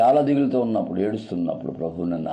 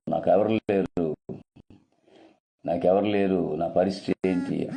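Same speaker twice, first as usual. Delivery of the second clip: slow despair; 3 semitones lower, slower than usual. Acted. Voicing a weeping believer's despair.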